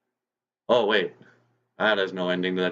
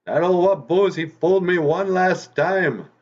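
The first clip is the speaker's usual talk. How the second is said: fooled fox wailing; 10 semitones higher, 5 dB louder than usual. Acted. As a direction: drag it out in disgust. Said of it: "And goes".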